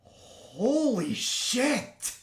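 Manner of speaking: loud, high astonished yell; excited shout. Real, not acted. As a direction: shout it out in disbelief. Monster fails a save.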